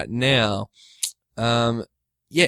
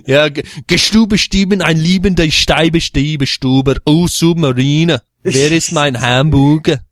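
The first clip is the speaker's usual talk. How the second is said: mock German; 3 semitones higher, 4 dB louder than usual. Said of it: "typical German voice".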